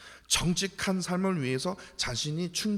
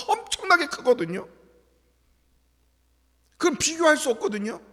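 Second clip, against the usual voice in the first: much higher and louder, driving sermon; fiery preaching; 8 semitones higher, 9 dB louder than usual. Acted. Pastor rousing the congregation, fiery preaching. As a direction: preach it with full fire.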